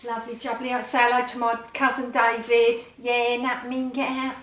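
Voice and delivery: put-on cheeky Essex geezer accent; chirpy Essex banter. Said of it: "My, my Essex accent".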